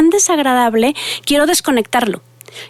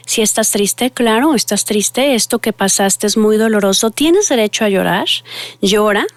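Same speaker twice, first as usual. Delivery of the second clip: self-compassion. Shown as a demonstration. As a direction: speak kindly to your own sadness. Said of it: "podamos decirnos a nosotros mismos". (voz suave y compasiva hacia uno mismo)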